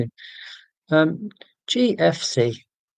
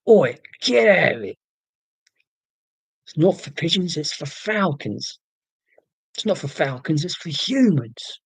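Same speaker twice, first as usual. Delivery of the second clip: cartoonish London falconer; London accent. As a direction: put on a broad London accent, telling someone off. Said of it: "Even the falcons have London accents".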